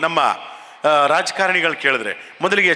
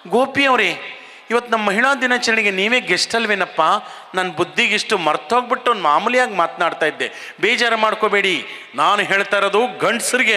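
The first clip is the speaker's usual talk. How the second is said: higher, sweet apologetic female anchor voice; lady anchor; 4 semitones higher than usual. Retold or imitated. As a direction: mimic the lady host smoothing things over. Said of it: "ಅವ್ರು ಏನು ಹೇಳ್ಬೇಕು?". (ಸ್ವಲ್ಪ ಎತ್ತರದ ನಿರೂಪಕಿಯ ಧ್ವನಿ)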